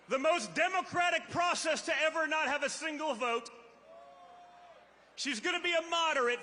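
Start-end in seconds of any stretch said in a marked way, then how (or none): 5.1-6.4 sarcastic. Real, not acted. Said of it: "magically gonna be a moderate".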